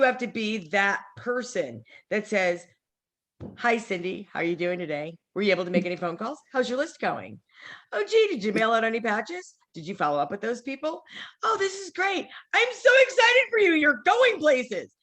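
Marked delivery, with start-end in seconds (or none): 3.6-14.9 cheerful upline pep talk. Acted. Voicing upline coaching a recruit.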